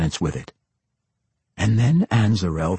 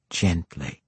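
cold matron voice; 5 dB quieter than usual. A narrator's reading. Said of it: "Quenthel Behenry said".

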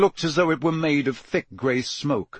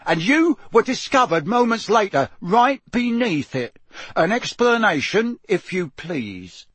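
stern, high-pitched demand; Mister Diggory; 8 semitones higher, 3 dB louder than usual. A narrator's reading. Mister Diggory demands an explanation from the elf, stern interrogation. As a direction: draw out the accusation, slowing at the end.

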